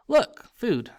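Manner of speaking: high, loud eager call; excited. Acted. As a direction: point it out with glee. Ron spots food, excited.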